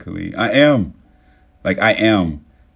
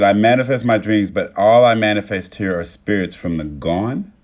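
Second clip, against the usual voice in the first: louder mock recital of "manifest"; quoting back; 9 dB louder than usual. Streamer quoting Grace's comment back to her, louder. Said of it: "You said".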